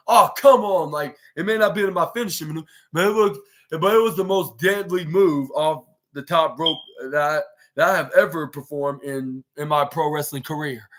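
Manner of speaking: lightly voiced exasperated wrestler; a hint of annoyed complaint; frustrated wrestler. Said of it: "should I say it like that in the Southern Georgia accent".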